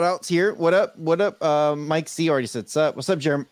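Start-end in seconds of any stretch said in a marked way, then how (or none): 2.9-3.4 with hiccups. Real, not acted. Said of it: "See, I got the hiccups".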